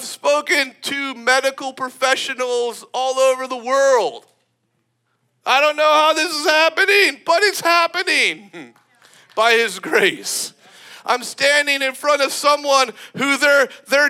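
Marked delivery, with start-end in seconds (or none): 5.5-8.7 amazed disbelief. Retold or imitated. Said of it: "you're like".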